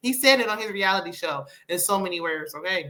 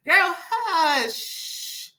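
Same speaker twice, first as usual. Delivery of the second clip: dismissive hush; 8 semitones higher than usual. Pretend. Dismissing a reality star.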